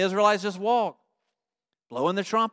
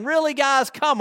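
high start dropping into exasperation; mock taunting; 6 semitones higher than usual. Canaanites taunt the marching Israelites, mock exasperated taunting. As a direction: goad them with mild scorn. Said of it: "taunting them".

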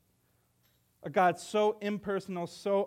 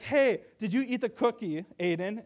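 mom questioning; 3 semitones higher, 4 dB louder than usual. Retold or imitated. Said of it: "if your mom's like".

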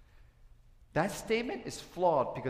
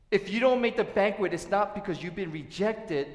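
ordinary delivery

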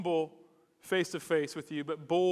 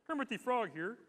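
higher-pitched frog puppet voice; Kermit the Frog; 4 semitones higher than usual. Retold or imitated. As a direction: praise a child as a frog puppet. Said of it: "a pretty good Kermit the Frog voice".

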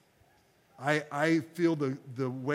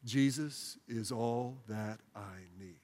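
slow prayerful phrase; 4 semitones lower, 4 dB quieter, much slower than usual. Shown as a demonstration. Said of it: "Would you say that with me?".

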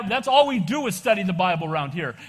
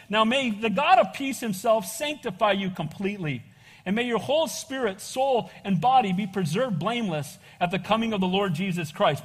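scripture reading. Acted. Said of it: "Let me read that again".

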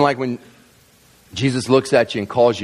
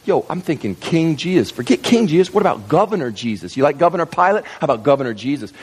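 talking it up. Acted. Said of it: "And they're talking it up".

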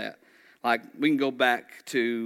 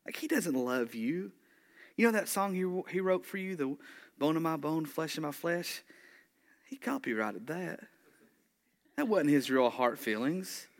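higher-pitched mock tempter, needling her insecurities; serpent planting doubt; 4 semitones higher than usual. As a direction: lightly play an insinuating serpent, pitch swooping up. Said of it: "Like he could have said".

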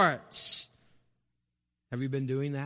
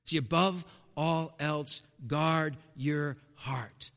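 hushed whisper on "guard your heart"; 6 semitones lower, 6 dB quieter, slower than usual. Acted. Preacher closing the point to the congregation, whispered. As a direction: drop to a breath for the final charge.

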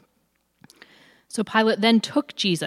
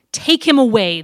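loud, raised, urgent cry; crowd shout; 4 semitones higher, 9 dB louder than usual. A narrator's reading. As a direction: shout it as an angry crowd would. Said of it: "they shouted".

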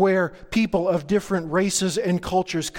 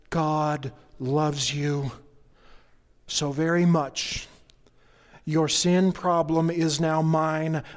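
Jesus speaking tenderly. Acted. Pastor voicing Jesus comforting a sinner, slow and tender. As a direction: let each word land kindly, unhurried. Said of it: "Jesus said".

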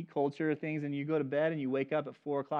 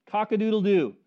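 "Cock-a-doodle-doo" called out louder, a falling rooster crow; 3 semitones higher, 7 dB louder than usual. Retold or imitated. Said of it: "he heard".

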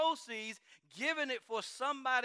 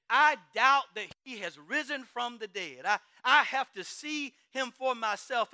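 doubting Thomas; 7 dB louder than usual. Acted. Thomas demands proof.

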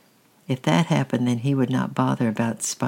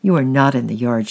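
louder flat contradiction; Dad catching Francis in a lie, louder and sharp; shouting dad; 6 dB louder than usual. Acted. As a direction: shout him down. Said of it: "shouted Dad".

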